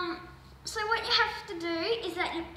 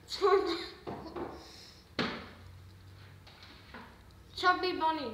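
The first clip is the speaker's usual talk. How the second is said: cheeks stuffed full; 2 semitones higher, 4 dB quieter than usual. Real, not acted. Marshmallows in mouth, challenge.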